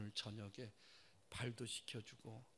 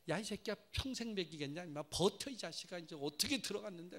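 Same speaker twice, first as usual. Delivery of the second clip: gruff fatherly telling-off; mock scolding; 4 semitones higher, 4 dB louder than usual. Father telling off his son who quit, mock gruff. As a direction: scold him roughly.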